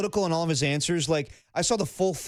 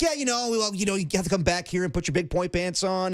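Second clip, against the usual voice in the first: upbeat coach impression; 3 semitones higher than usual. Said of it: "sounds like young Tony".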